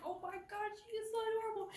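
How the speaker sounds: high, soft coo. Retold or imitated. Imitating the friend softly cooing at the dog. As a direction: melt over the dog.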